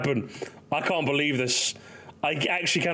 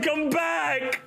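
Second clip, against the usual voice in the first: mock call; 11 semitones higher than usual. Calling after kidnapped son.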